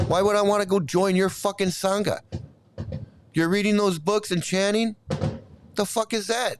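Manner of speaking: angry rant. Real, not acted. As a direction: tell the viewer off in exasperation. Irritated rant at a viewer's comment.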